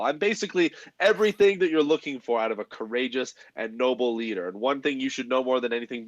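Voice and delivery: boastful noble hero voice. Acted. Boastful noble character speech.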